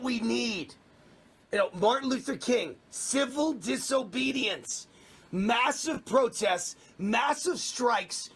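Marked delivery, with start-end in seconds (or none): 2.9-8.3 slow rallying emphasis. Real, not acted. Rallying list of protest actions.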